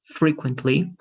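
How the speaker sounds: "frequently" stressed on FRE; first-syllable stress. Shown as a demonstration. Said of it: "stress the first syllable".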